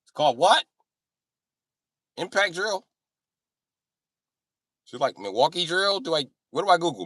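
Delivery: put-on high, loud confused old white guy; old white guy impression. Old white guy wondering what to Google, high confused voice. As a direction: blurt eager questions in a high voice.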